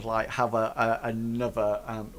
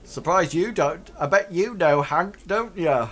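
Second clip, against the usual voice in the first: ruffians; 6 semitones higher, 4 dB louder than usual. Acted. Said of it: "look at you and say".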